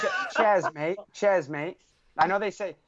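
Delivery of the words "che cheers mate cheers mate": playful, higher-pitched go at an English accent; attempted English accent. Shown as a demonstration. American asked by British guests to try their accent, mock English accent. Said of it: "have a go at doing".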